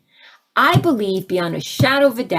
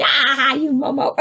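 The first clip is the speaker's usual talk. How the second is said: laughing voice of the divine; 5 semitones higher than usual. Retold or imitated. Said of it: "I love when the divine laughs at me".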